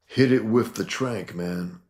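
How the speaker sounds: barked high and loud, then dropping on man; mutant thug yell. Acted. Reading a comic aloud, voicing a gang member, loud and high. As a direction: shout it like a street punk with a hostage.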